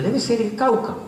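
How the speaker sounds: suposición ingenua. Retold or imitated. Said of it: "Yo digo".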